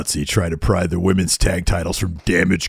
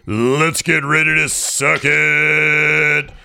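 slow, higher, drawn-out announcer boom; mock ring announcer; 7 semitones higher, much slower than usual. Mock announcer signing off the interview. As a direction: ham up the famous ring intro.

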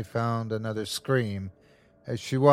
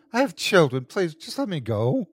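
higher-pitched, desperate begging; tearful plea; 6 semitones higher than usual. Acted. Mother begs the creature for her children's sake, tearfully. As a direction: plead as if starting to cry. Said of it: "Christine had begun to cry".

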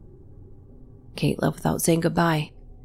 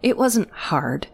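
whispering; 5 semitones higher, slower than usual. Acted. Kate's angry accusation.

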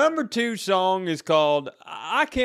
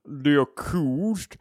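honeyed southern lawyer drawl; 4 dB louder than usual. Acted. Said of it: "Southern lawyer".

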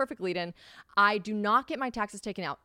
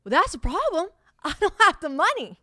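high, loud line breaking into a laugh; nervous amusement at her own mess; laughing panic; 10 semitones higher, 8 dB louder than usual. Retold or imitated. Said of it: "And I was like".

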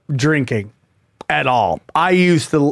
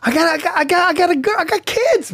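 exasperated protest; 11 semitones higher, faster than usual. Real, not acted. Protesting he can't come stay.

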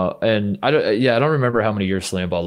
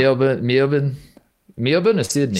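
put-on Aussie city names; Australian accent; 2 semitones higher than usual. Shown as a demonstration. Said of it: "I can do Australian".

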